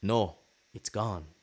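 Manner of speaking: slow attempt at a Norwegian accent; roughly faked Norwegian accent. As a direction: imitate a Norwegian guard, slowly. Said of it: "in his Norwegian accent".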